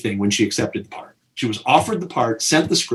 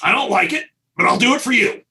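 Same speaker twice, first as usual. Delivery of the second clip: gruff, higher grudging concession; grudging George; 9 semitones higher than usual. Retold or imitated. George answers the director in front of the crew, grudging. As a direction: give in with mock reluctance. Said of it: "and he goes".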